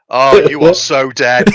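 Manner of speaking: slow, matter-of-fact imitation; calm. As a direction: break the bad news calmly, drawn out. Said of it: "He would just say it really calmly as well".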